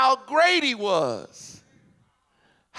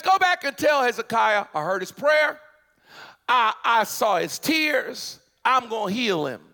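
proclaiming God's words. Acted. Preacher booming God's reply to Hezekiah. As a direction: announce God's answer with force.

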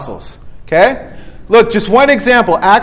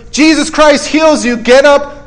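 higher-pitched, declarative healing order; commanding; 4 semitones higher than usual. Acted. Peter to Aeneas, commanding. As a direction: proclaim it, then give the order.

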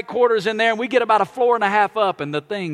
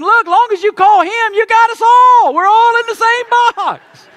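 exasperated shout; 9 dB louder, slower than usual. Retold or imitated. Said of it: "we're all thinking".

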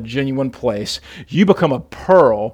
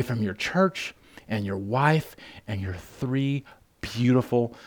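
soft, lowered, sincere consolation; retold consoling; 2 semitones lower, 6 dB quieter than usual. Pastor to friend facing seven years in prison, tender reassurance. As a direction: console him gently, voice dropped.

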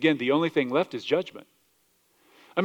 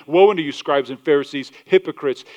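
louder, forceful woe; raised denouncing voice; 5 dB louder than usual. Retold or imitated. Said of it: "speaking at such a high level of tone here".

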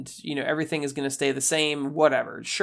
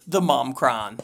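show host intro; 5 dB louder than usual. Acted. Opening the show segment.

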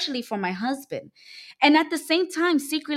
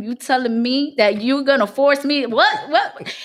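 indignant outburst; 2 semitones higher, 5 dB louder than usual. Retold or imitated. Outraged at husband's ultimatum.

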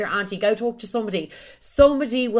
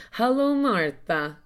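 lightly put-on foreign accent, slowly; Frederic; 2 semitones higher, slower than usual. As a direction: imitate a suitor's foreign accent, drawn out. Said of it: "What fucking accent is this".

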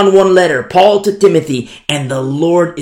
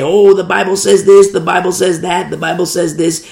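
mock preacher quote; 3 semitones higher than usual. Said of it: "I don't care what they say".

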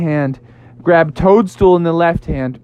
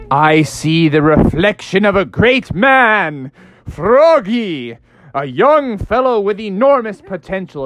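grand prophecy; 3 semitones higher than usual. Acted. Toadstool flatters frog grandly.

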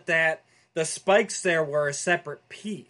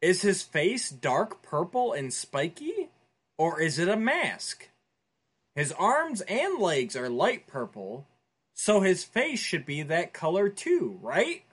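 lightly voiced listener question, slow and even; Jeremy impression; slower than usual. Host reading a listener's question as Jeremy, lightly voiced. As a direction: read it out as a barely changed Jeremy. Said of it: "That was my Jeremy impression".

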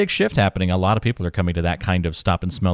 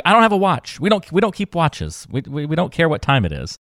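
high-pitched mock exasperation; grandmother freaking out; 8 semitones higher than usual. Grandmother insisting to the grandchild they keep no watches, high exasperated. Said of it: "freaked out about it".

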